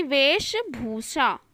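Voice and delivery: "वेशभूषा" as vesh, then bhusha; slow dictation. Shown as a demonstration. Teacher dictating to students, slow and segmented. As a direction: draw out "वेशभूषा" in two parts. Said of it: "वैसे ही".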